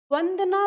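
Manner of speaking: वंदना said with lip on teeth, lips apart; वंदना with a clear व. Shown as a demonstration. Teacher showing students the correct वंदना. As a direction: say वंदना starting on व, lips never meet. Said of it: "तो व करके बोलना है".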